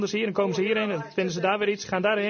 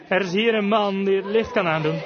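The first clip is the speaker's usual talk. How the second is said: retold call, mildly raised; 3 dB louder than usual. Brother telling his frightened sister help is here, mildly calling out. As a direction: call out reassurance with some added force. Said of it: "haar broertje riep haar toe".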